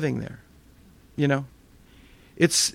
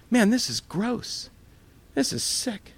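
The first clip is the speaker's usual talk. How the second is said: higher, slow, grossed-out groan of disgust; 7 semitones higher, 4 dB quieter, slower than usual. Retold or imitated. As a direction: recoil from the stench. Waking to a terrible smell.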